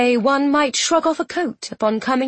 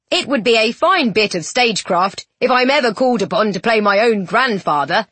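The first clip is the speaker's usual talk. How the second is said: joking. Acted. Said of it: "he joked".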